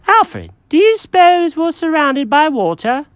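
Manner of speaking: high, fussy cat voice; Jenkins the cat. Acted.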